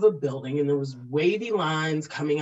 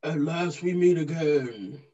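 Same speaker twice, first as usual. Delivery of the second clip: lightly voiced villain, barely trying; a hint of a supervillain, no effort; half-hearted villain voice. Shown as a demonstration. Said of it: "give it a try".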